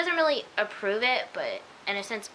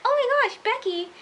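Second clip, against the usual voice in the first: high, loud mock startle; Imogen scared; 13 semitones higher, 6 dB louder than usual. Shy girl startled by Becky, mock scared. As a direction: imitate a shy girl jumping with fright, voice shooting up. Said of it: "When she gets scared, she's like".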